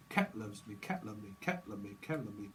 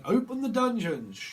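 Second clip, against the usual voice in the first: high, loud proclamation; mock dungeon call; 9 semitones higher, 6 dB louder than usual. Medium calling out in a mock fantasy voice. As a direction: boom it like a fantasy herald.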